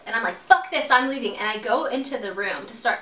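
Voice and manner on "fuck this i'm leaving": fed up, a bit louder and higher; retold angry yell. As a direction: blurt it out, mock-yelled mid-argument. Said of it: "screaming at each other".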